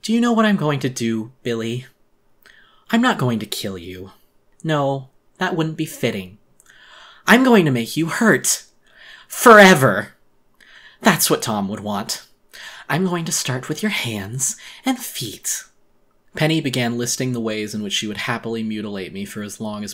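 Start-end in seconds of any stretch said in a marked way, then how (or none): 0.0-12.3 gloating, rising to a loud Forever; deranged menace. Acted. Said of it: "A deranged grin overtook the corner of her mouth". 12.9-15.6 slow, breathy, gleeful threat; menacing whisper. Acted. Monster gloats about torture.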